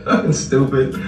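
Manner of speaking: scornful words through laughter; laughing insult. Real, not acted. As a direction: scoff while still cracking up.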